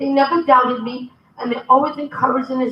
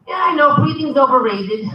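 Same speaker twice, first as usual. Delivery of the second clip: laughing retort. Retold or imitated. Linda quoting her own reply.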